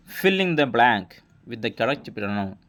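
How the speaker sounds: every word stretched out slowly; slow classroom reading of a question; very slow dictation. Shown as a demonstration. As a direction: read the question at dictation pace. Teacher reading out quiz question.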